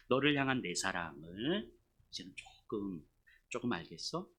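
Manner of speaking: low, slow, tender question; God's gentle voice. Acted. God asking whether the pastor understands, low and tender. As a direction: speak low, with patient love. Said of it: "이렇게 말씀하시는 거죠".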